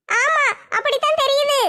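slow, drawn-out tearful ஆமா; whiny mock cry. Nimmi whimpering at the two elders. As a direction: sulk it out like a wronged girl.

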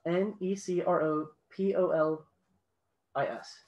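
spelling the letters out again; dictating. Shown as a demonstration. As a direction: read each letter out clearly. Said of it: "Would you like me to spell that for you?".

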